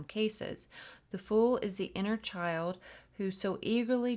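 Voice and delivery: expressive, measured read-aloud; guidebook reading. A narrator's reading. Host reading the tarot guidebook to viewers, expressive read-aloud. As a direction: read it out clearly to listeners.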